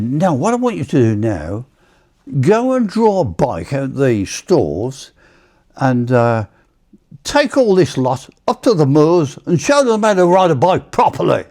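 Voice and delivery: lightly imitated sergeant giving orders; staff sergeant. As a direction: build to a high mock dismissal. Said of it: "he was frothing at the mouth".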